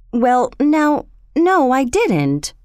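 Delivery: mildly startled, drawn-out reply; startled awake. A narrator's reading. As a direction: answer as if just jolted from sleep. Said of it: "coming out of his sleep with a start".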